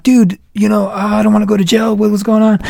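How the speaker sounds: lightly whiny play-dumb protest; mock worry. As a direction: feign worry to string a scammer along. Plays scared mark to scammer.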